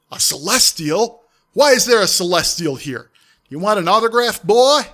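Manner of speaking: loud mocking demon taunt; booming demon voice. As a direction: boom it through the portal. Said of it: "a demonic voice ... booming through it".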